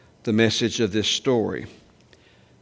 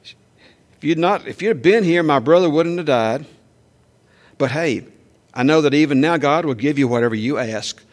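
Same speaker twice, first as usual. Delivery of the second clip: raised, loud reproachful imitation; Martha's lecture; 4 semitones higher, 5 dB louder than usual. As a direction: scold Jesus as the grieving sister. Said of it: "that was my mama talking".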